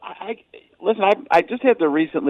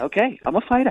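high voice rising at the end of each line. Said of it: "he's got that up here, up here".

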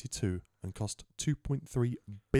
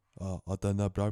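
bad, put-on Samoan accent. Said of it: "I can't do a Samoan accent".

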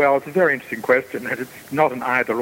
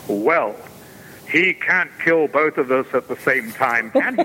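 play-acted big guy voice, proclaiming. Speaker retells a stranger with a box on his head addressing them: imitating a man's booming voice. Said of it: "he says in this booming voice".

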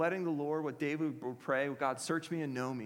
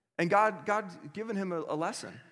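ordinary talk

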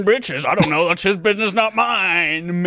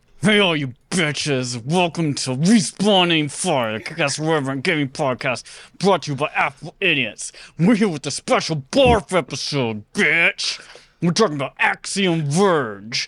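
words pushed out through gritted, clenched teeth; 3 semitones lower than usual. Podcast host opening the episode intro, talking through clenched teeth. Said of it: "How long can I continue to do this through my teeth?".

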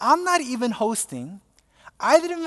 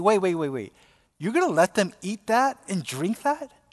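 ordinary talk, nothing marked

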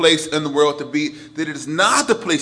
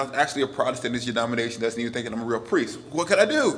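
ordinary talk, nothing marked

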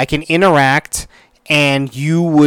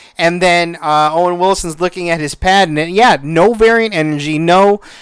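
usual speaking voice

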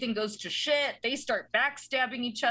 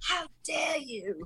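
put-on angry chef voice, pitched higher; 4 semitones higher, 3 dB quieter than usual. Imitating a chef scolding a cook who burns the risotto: Gordon Ramsay voice. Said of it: "I love it when he's like".

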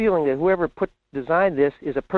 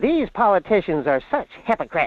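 hard, harsh-sounding woman's delivery; 3 semitones higher than usual. Describing what comes on, the speaker quotes another lady in a harsh-sounding voice. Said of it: "kind of a harsh-sounding lady".

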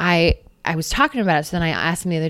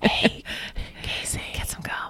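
soft, light whisper, quieter. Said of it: "a light whisper into my ear".

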